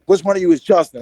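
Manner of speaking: retold firm demand without yelling; stern teacher. Teacher singling out a student, imitated as stern. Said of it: "saying it really stern".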